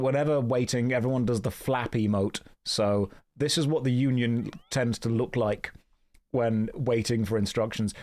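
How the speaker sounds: normal talking voice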